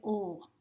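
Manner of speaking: "l" said as a sound, not the letter name; isolated first sound. Shown as a demonstration. Teacher showing the first sound of lark to drop, isolated "l". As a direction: sound out "l" on its own, like "ull". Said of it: "delete the first sound of the word".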